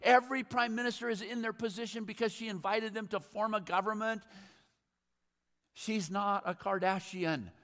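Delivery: high, loud rant at the radio. Retold or imitated. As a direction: scold the radio host, fired up. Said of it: "I'm going".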